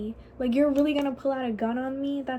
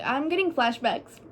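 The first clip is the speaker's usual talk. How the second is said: ordinary talk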